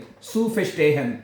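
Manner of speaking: zu verstehen, said very slowly; slow demo. Shown as a demonstration. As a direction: spell out zu verstehen syllable by syllable, very slow. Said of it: "हैं". (धीरे धीरे साफ़ उच्चारण)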